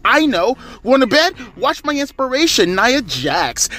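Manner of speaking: high, over-enunciated wrestling heel voice; girl heel voice. Retold or imitated. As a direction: enunciate every word like a smug heel. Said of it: "I'm gonna do the stereotypical girl heel voice".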